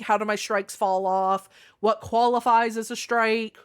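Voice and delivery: talking while nibbling lips; words slightly blurred by chewing. Real, not acted. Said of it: "I'm just chewing skin off my lips".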